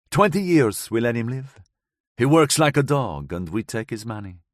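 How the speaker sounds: put-on light foreign accent, woman recounting; Gabriella's voice. Gabriella tells the narrator of that night, lightly accented.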